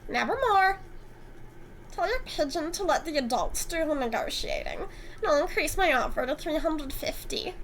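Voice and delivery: a lightly voiced smug, flirty antique dealer; smug Eric.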